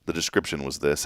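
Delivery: put-on soft old-sounding British voice; mock British accent. Host introduces the lot description, in mock British accent. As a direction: pretend to be vaguely, stuffily British. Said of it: "I don't even know what accent this is".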